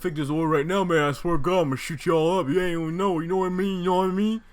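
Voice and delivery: loud, fast street threat, a tough guy's voice; angry threat. Retold or imitated. Angry customer threatening the drive-in staff, loud fast threat. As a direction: bark it like an armed customer over a botched order. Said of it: "And he was like".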